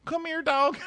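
very high, squeaky whine; hammed-up sobbing then calling a dog; mock weepy JoJo. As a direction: squeal like a tearful girl. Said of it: "she's like".

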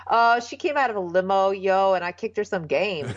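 lightly imitated Ebonics, slightly put on; mock Ebonics. Bachelor bragging to the bartender, mock Ebonics. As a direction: tease his clumsy attempt at Ebonics. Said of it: "Ebonics, which is so ridiculous".

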